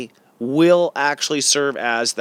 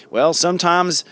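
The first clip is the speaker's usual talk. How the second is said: put-on folksy Southern US accent, said in passing; a light, half-joking Southern accent; 4 semitones higher than usual. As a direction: slip into a Southern accent on "Well, sometimes". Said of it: "I just went Southern there".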